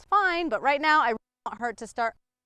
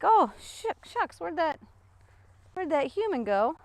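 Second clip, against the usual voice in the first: high, lightly comic dog impression; puzzled dog voice; 6 semitones higher than usual. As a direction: voice a dog who has lost track of its human. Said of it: "And then she's like".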